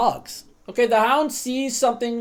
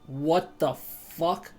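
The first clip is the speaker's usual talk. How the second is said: baffled; 5 semitones lower, 8 dB quieter, much slower than usual. Pretend. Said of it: "The Hound is just like".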